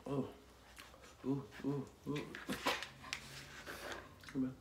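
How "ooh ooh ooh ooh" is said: pained ooh from spice. Real, not acted. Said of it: "My mouth is on fire".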